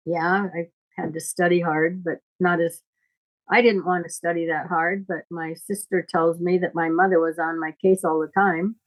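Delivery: usual speaking voice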